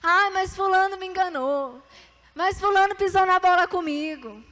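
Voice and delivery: reclamação encenada, em tom mais agudo; queixa encenada. Acted. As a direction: imitar alguém se queixando dos outros. Encena a queixa de quem culpa outro. (queixa de quem se diz enganado)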